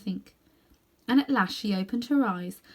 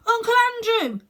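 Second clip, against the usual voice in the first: high, loud shout of recognition; 7 dB louder than usual. A narrator's reading. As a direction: call it out all at once. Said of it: "he shouted out".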